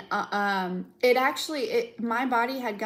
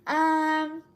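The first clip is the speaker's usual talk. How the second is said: bold, sassy, a bit higher; sassy demand; 6 semitones higher, slower than usual. Pretend. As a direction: set them straight with sass. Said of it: "this energy of like".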